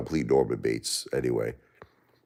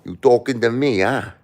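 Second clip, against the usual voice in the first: raised-pitch tough-guy challenge; higher, challenging wise-guy question; Robert De Niro; 6 semitones higher than usual. Acted. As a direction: confront someone like a movie tough guy. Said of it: "do your best Robert De Niro impression".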